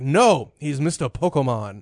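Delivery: mildly indignant correction; firm mock-steamed waitress, only lightly voiced; Masako. Waitress defending customer's nickname, mildly steamed imitation. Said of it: "Masako got real, like, steam".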